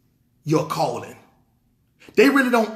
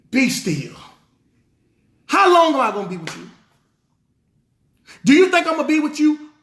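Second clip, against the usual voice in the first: hot, exasperated rebuke, fast and raised; angry Christ; 2 semitones higher than usual. Retold or imitated. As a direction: scold the disciples as an angry Christ. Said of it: "He was angry".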